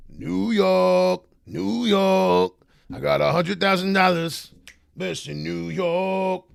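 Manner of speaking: high, loud, drawn-out hollering; hammed-up New York holler. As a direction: stretch each shout out long and loud. Hammed-up hollering, then calls it horrible.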